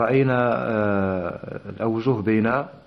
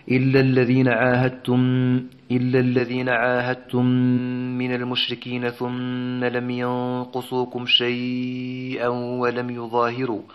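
slow chanted tajweed recitation; Quran recitation; slower than usual. Shown as a demonstration. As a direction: recite the verse in measured, melodic chant. Teacher recites next verse.

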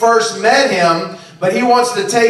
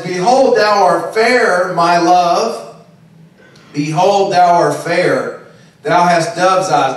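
scripture reading; 2 semitones lower than usual. Acted. Reading Song of Songs aloud.

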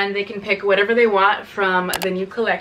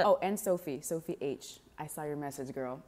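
ordinary talk, nothing marked

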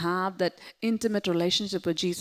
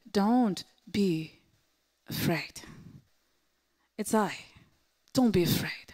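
softly reassuring; calm them without a hint of scolding; gentle, not scolding; 4 dB quieter than usual. Jesus comforting scared disciples, gently reassuring. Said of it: "He didn't scold them".

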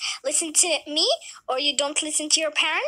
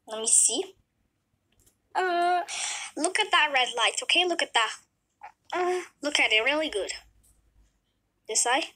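lightly voiced doctor. Doctor runs eye test.

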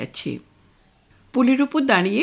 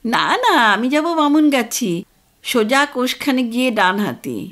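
village man; 3 semitones higher, 4 dB louder than usual. Acted.

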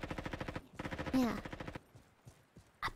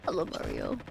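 extremely low, soft manly hello; 6 dB quieter than usual. Retold or imitated. Mimicking a friend's manly voice, very deep. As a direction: sink to the very bottom of your range. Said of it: "This is my manly voice".

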